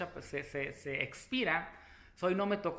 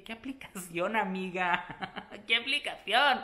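louder, laughing re-ask; laughing repeat; 2 semitones higher, 5 dB louder than usual. Retold or imitated. Asking the clerk again about the application, laughing and louder. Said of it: "Le dije".

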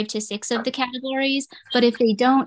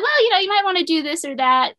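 higher, lightly voiced adviser; casual advice; 8 semitones higher, 3 dB louder than usual. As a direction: offer breezy advice. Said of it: "then she's like".

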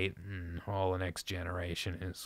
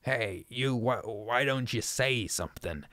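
shrill shouting. Acted. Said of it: "Zadok was really screaming now".

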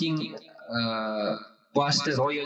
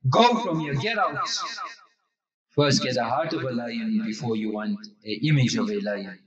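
upset scolding; 5 semitones lower than usual. Retold or imitated. Tattoo artist scolds the cowardly customer, low and stern. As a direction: lower the voice and rebuke him. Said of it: "tattoo was got upset".

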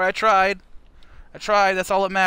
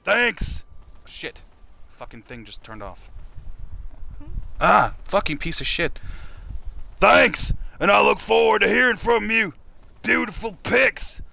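Stone Cold impression; 4 semitones higher than usual. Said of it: "I can't do a Stone Cold".

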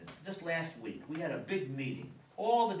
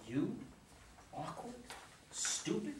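questioning echo, rising high at the end; incredulous; 8 semitones higher, 6 dB quieter, slower than usual. Acted. Father disbelieving daughter's harsh words about herself, incredulous.

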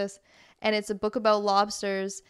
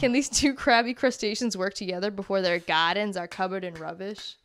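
lightly put-on Boston reading; Boston accent. Reading a book description aloud, light Boston accent. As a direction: finish the blurb in mild mock Boston. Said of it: "reading with that accent".

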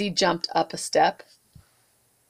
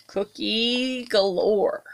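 whisper; slower than usual. A narrator's reading. Reading aside, whispered.

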